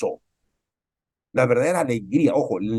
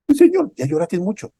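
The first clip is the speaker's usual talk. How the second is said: fervent cry; 8 semitones higher, 6 dB louder than usual. Real, not acted. Preaching climax.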